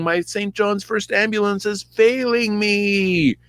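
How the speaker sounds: high, hammed-up panicked wail; Saul. Wounded Saul bleeding out, mock panicked wail.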